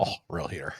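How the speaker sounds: lightly imitated deep, dark golfer voice; Tiger. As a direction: echo the Tiger impression, low and soft. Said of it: "when his voice got dark".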